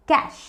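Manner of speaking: कैश as one syllable, like cash; correct pronunciation. Shown as a demonstration. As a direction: end कैश on "sh". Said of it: "correct pronunciation है". (कैश के अंत में सिर्फ़ "श" बोलें)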